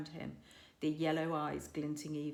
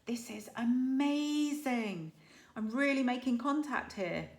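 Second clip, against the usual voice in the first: Hiccup's thoughts; 6 semitones higher, 4 dB louder than usual. A narrator's reading. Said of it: "Hiccup was just thinking".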